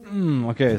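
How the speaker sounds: humming with nose pinched shut; pinching nose. Real, not acted. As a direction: hum while holding your nose closed. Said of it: "Let's both try it right now".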